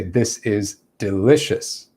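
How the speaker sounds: "delicious" falling at the end as a statement; downward inflection. Shown as a demonstration. Teacher demonstrating a statement, falling on "delicious". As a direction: state it slowly, dropping on "delicious". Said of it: "we drop our intonation down".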